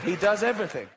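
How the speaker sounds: does said through a laugh; laughing repeat. Shown as a demonstration.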